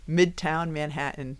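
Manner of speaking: "Midtown Manhattan" said slowly on request; requested pronunciation. Shown as a demonstration. Podcaster repeating "Midtown Manhattan" for a teasing co-host, slow demonstration. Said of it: "could you pronounce Midtown Manhattan again".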